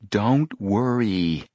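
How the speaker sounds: very slow, drawn-out reassurance; unhurried comfort; reassuring. A narrator's reading. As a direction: soothe a worried friend, stretching the words. Callie reassures Mary.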